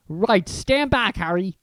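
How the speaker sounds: hearty, rough-spoken giant; chatty gamekeeper, gossiping; Hagrid voice. Acted.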